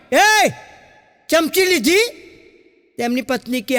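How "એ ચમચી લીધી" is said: calling out. Retold or imitated. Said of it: "જોરથી બૂમ પાડી".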